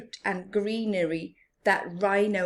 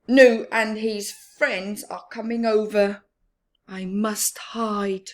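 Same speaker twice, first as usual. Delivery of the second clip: hurried before friends arrive; panicked Rhino; 2 semitones higher, 8 dB louder than usual. Acted. Rhino cuts Baboon off, panics.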